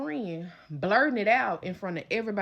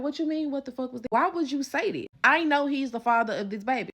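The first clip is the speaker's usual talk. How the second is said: higher and louder, indignant; defensive friend; 6 semitones higher, 4 dB louder than usual. Retold or imitated. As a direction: friend fighting back. Friend arguing back.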